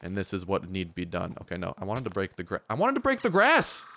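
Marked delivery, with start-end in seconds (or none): 2.7-3.9 high-pitched cry of exasperation, peaking on grass; frustrated outburst. Real, not acted. Gamer to the game over unbroken grass, frustrated outburst. Frustrated repeat of cut-off line.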